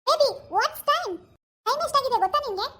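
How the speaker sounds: high, very slow, spoiled wife voice; mocking the daughter-in-law. Mother-in-law mimics lazy daughter-in-law demanding bed coffee. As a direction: drawl it out like a pampered madam.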